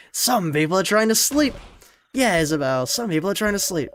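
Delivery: loud, high scolding; shout-whisper gone loud, telling the housemaid to hush; annoyed shout. Acted. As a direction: yell at them to shut up and sleep. Shushing noisy friends at night.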